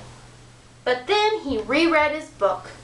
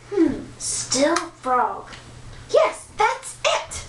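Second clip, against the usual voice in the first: thinking aloud; 3 semitones higher, slower than usual. Acted. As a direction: ponder slowly, then light up. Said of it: "The prince thought".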